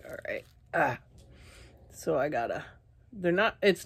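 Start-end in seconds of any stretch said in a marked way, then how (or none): 0.1-1.0 real whispered aside to yourself; quiet whisper while getting ready to go again. Real, not acted. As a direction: breathe it out in a whisper. Muttering to self, recovering.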